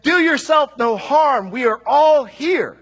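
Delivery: high, loud and slow, calling across the prison; loud cry. Acted. Paul calling to the jailer in the dark, loud slow cry. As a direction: shout it out so the jailer hears. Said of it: "Paul cries out with a loud voice".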